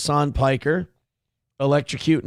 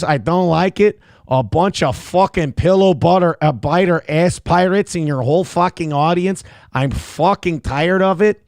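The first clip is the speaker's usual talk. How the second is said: mock furious dog ranting, louder; angry dog rant; 4 semitones higher, 4 dB louder than usual. Dog Gordy yelling at the audience in mock fury. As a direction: chew out the audience as a cranky dog.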